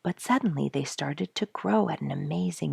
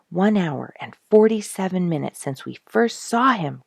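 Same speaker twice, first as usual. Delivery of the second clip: mild excited cry, a little louder; cried out; 4 semitones higher, 5 dB louder than usual. Acted. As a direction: call out the time with some excitement. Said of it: "cried Duke".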